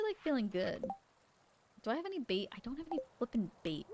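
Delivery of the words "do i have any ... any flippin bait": muttered annoyance under the breath; whispered grumble. Real, not acted. Whispering to chat about missing bait, annoyed. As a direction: whisper it, irritated.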